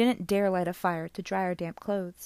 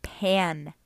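indignant; 3 dB louder than usual. Acted. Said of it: "he cried indignantly".

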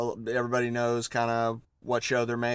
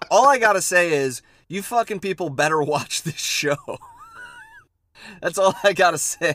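loud; 6 semitones higher, 6 dB louder than usual. Acted. Mock threat to the audience.

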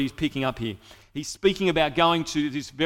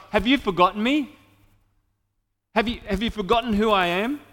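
higher and louder, pleading desperately; anguished plea; 5 semitones higher, 4 dB louder, faster than usual. Retold or imitated. Psalmist crying out to God, higher, louder anguished plea. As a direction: cry out as if abandoned.

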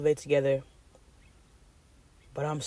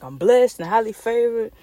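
mock blessed voice; 7 semitones higher, 8 dB louder than usual. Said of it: "you be like".

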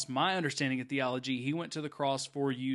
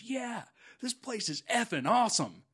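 imitating the kid, higher and louder; excited teen kid; 9 semitones higher, 4 dB louder than usual. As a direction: blurt it out like a thrilled street kid. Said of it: "And he stops, he goes".

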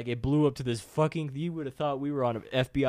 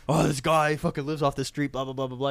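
slightly raised voice spilling details; mock blabbermouth; 3 semitones higher, 5 dB louder than usual. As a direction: lightly imitate someone blurting it all out. Retold excuse spilling out.

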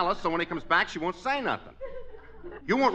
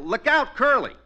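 planned yell; 6 semitones higher, 5 dB louder than usual. Retold or imitated. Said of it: "I'll yell".

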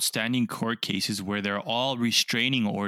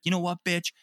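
mock angry snap; 8 semitones higher, faster than usual. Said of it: "He freaks out".

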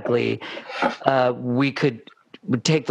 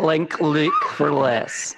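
slow mock Scottish "Link Luke for less"; Scottish accent; slower than usual. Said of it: "be Scottish about it".

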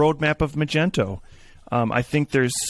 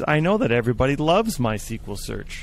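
mock praise, tongue in cheek; sarcastic; 3 semitones higher than usual. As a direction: fake enthusiasm for a flaw. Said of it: "See, I'm being sarcastic now".

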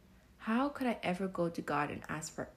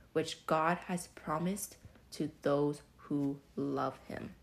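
scripture reading; 2 semitones lower than usual. Shown as a demonstration.

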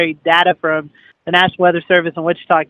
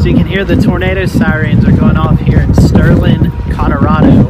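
shouting over sirens; 9 dB louder than usual. Real, not acted. Sirens going off during storm chase.

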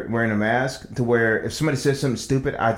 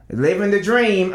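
slow, higher, mock-weary living the dream; weary coworker mimic; 6 semitones higher, slower than usual. Coworker answering how's it going, mock weary. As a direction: drag it out like a tired coworker. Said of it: "if I hear".

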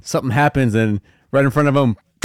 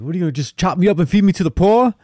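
mock DiCaprio freakout; 7 semitones higher, faster than usual. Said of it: "he's like".

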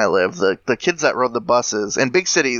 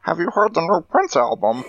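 higher, thin cartoon Martian voice; bad Marvin Martian; 4 semitones higher than usual. Cohost pretends to be Marvin Martian asking about a singer's new album, in a squeaky cartoon voice. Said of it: "It's a bad Marvin Martian".

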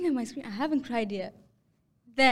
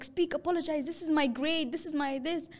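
bossy demand; 4 semitones higher than usual. Retold or imitated. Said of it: "she's like".

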